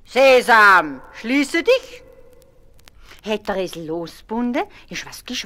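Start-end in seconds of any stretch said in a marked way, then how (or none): 0.0-2.0 loud, higher call; Ali Baba calling. A narrator's reading. Ali Baba closing the cave behind him, loud call. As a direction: call it out to close the rock. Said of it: "hat gerufen".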